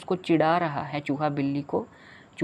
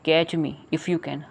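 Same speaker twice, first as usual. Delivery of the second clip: slow reading; much slower than usual. Shown as a demonstration. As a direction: catch me if you can, slow and even. Repeating the poem title.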